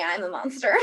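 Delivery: laughing through the line; giggling confession. Acted. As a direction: chuckle it out sheepishly. Laughs while owning up.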